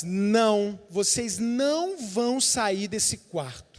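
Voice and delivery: slow, menacing demon voice; demon's taunt. Retold or imitated. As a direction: deny them slowly, like a jailer. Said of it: "o demônio dizia assim". (demônio ameaçador, falando devagar)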